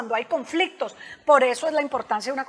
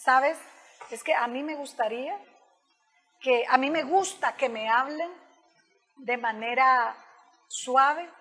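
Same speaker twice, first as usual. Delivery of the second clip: gentle assertive request. Shown as a demonstration. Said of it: "Ahora viene de la comunicación asertiva".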